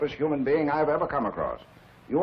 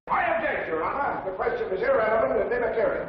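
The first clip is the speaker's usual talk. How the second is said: raised, urgent voice; 6 semitones higher than usual. Acted. Lawyer objecting in court.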